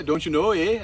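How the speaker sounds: cartoonish Canadian accent. Shown as a demonstration. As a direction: ham up the Canadian, rising on the tag. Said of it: "Bob and Doug from the Great White North".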